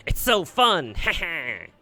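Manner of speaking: high, loud, delighted cackling fairy; gleeful laughter. Acted. Fairy delighting in the slaughter, laughing. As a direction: squeal with giddy cruel joy.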